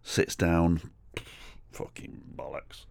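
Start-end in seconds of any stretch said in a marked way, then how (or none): 1.7-2.8 low whispered curse under the breath; whispered grumble of a drunk old man; muttered swearing. Retold or imitated. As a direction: mutter it to yourself like a grumpy drunk. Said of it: "like that".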